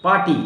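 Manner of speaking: "पार्टी" with a long "aa" straight into T; "पार्टी" said as "paa-tee"; silent R. Shown as a demonstration. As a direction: leave the R out of "पार्टी". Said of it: "आर नहीं बोलना है".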